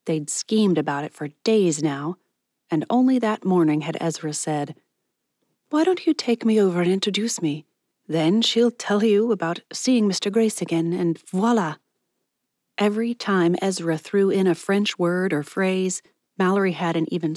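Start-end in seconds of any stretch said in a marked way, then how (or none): 5.7-11.8 a touch higher, coaxing friend's voice; lightly voiced eager friend. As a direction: lightly play the friend pitching her scheme. Voices Ezra, the scheming friend.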